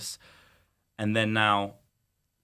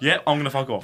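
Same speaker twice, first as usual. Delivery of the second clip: mock idiot; 4 semitones higher, 6 dB louder than usual. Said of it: "you think I'm an idiot to go".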